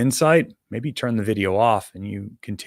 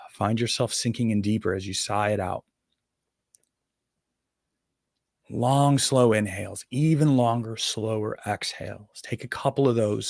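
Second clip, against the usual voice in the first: unhurried meditation guide with long pauses; guided meditation. Acted. Meditation teacher guiding listeners to breathe together, guided meditation. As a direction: guide listeners gently into breathing, leaving space.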